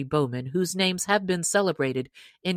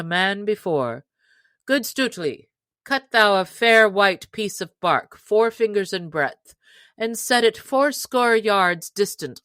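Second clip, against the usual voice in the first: hearty Robin Hood; 2 semitones higher, 4 dB louder than usual. Acted. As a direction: boom out an invitation like a jolly chief. Robin sets the challenge.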